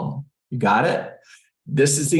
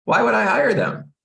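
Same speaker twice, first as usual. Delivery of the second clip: indignant seller; 12 semitones higher than usual. Retold or imitated. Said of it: "where the seller has said to me".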